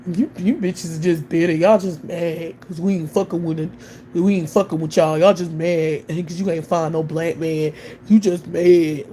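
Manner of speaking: a hint of a smug man brushing women off; mocking imitation of men. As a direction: sneer it like the men who comment.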